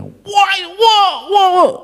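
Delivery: high, mocking wah wah wah; mock exclamation. Preacher mimics a child sassing parents, high mock whining. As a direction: mimic a cheeky kid brushing off a parent.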